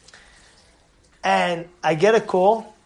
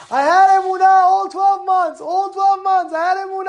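overjoyed; 10 semitones higher than usual. Retold or imitated. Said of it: "This is what he's telling me".

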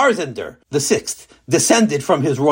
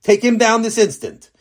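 urgent command; 7 semitones higher than usual. Acted. King repeats order.

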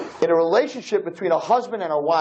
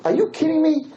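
irritated husband; 4 semitones higher than usual. Retold or imitated. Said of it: "he says".

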